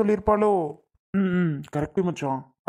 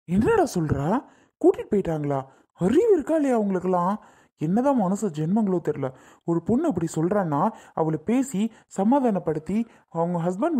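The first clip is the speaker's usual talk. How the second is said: outraged friend, pitch swooping up on key words; indignant disbelief. Acted. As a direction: scold the absent parents in disbelief. Friend outraged at the wife's parents. (கோபமும் அதிர்ச்சியும் கலந்த குரலில்)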